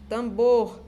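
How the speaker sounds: tambor with "bor" held and stressed; syllable-final OR. Shown as a demonstration. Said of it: "trabalhando aqui as sílabas ar".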